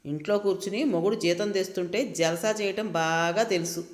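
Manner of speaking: lightly voiced husband's sneer; mocking husband. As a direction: taunt his wife, half-mocking. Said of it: "ఎగతాళిగా అంటున్న తన మాటలు". (ఎగతాళిగా, తేలికపాటి వెక్కిరింపు)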